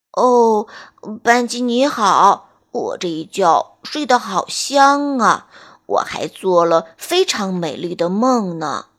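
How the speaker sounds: slow, sleepy tortoise voice. Acted. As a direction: drawl it like a drowsy old tortoise. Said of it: "小乌龟慢吞吞地说".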